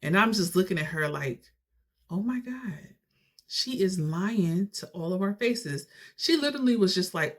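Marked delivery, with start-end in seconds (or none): 2.1-5.9 acted disbelief. Niece watching D fake her tears, in disbelief.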